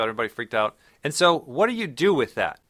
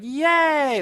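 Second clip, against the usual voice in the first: squealed high, loud "Yay!"; gleeful cheer; 5 dB louder than usual. Retold or imitated. Crowd mocked as thrilled volunteers, high excited squeal. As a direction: cheer like an eager test subject. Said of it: "And everyone's like".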